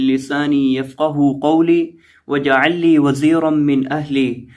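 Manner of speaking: slow, measured Arabic prayer recitation; recited prayer. Acted. Teacher opening a Quran lesson with a slow prayer. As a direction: intone the supplication slowly and devoutly.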